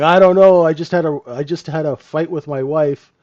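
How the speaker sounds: a lightly hammed-up surgeon making excuses; mock rattled surgeon. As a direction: ham up a nervous surgeon.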